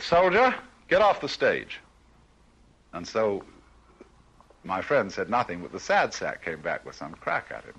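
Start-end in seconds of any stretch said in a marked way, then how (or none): 0.0-1.8 barking officer's order, pitched up; pompous sputtering colonel. Retold or imitated. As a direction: play the stern colonel ordering him off. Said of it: "the colonel said".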